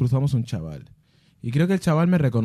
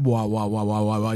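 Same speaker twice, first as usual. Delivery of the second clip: imitated alarm; 2 semitones lower than usual. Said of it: "alarm going off, imitated".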